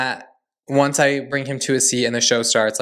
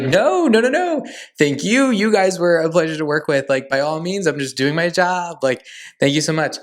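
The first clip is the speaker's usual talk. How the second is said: gushing excitement; 4 semitones higher than usual. Retold or imitated. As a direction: squeal it back like a flattered fan. Gushing reply to drag queen's thanks.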